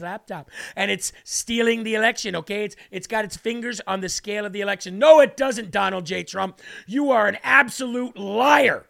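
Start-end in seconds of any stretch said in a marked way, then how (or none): 5.0-8.8 loud, slow accusation; hammed-up scolding of Trump; mock media outrage. Host voices media calling Trump a liar, outraged.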